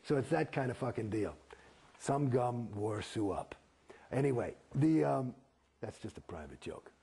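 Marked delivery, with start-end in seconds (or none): 2.0-3.6 slow, deliberate nonsense phrase; slow drill gibberish. Shown as a demonstration. Actor reciting drill gibberish to the host, slow and deliberate. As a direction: spell out the gibberish slowly. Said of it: "Mu Gu Gai Pan".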